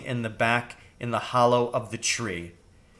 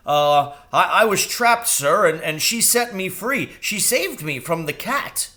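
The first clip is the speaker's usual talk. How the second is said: high stammering crow; anxious bird explaining; timid high crow; nervous crow; 6 semitones higher, 4 dB louder than usual. Acted.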